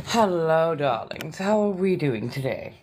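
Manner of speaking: breathy vintage purr; Inna Bathory voice. Pretend. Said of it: "I have on the Inna Bathory voice".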